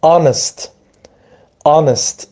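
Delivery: honest with a silent H; honest, the H left unspoken. Shown as a demonstration. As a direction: say honest starting on the vowel, no H sound. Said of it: "اچش تلفظ نمیشه".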